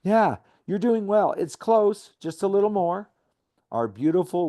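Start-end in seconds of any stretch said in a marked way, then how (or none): 0.0-3.1 high, louder encouraging coach voice; a touch of an upbeat sports coach; coach's tone. Retold or imitated. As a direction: cheer him on like a coach. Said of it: "I adopt the tone of a coach".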